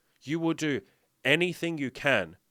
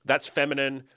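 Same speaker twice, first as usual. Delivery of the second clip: louder, scornful dismissal; mocking scoff; 3 semitones higher, 6 dB louder, slower than usual. People rejecting self-kindness, louder scornful scoff. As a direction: scoff at it like a skeptic. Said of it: "And they'll say".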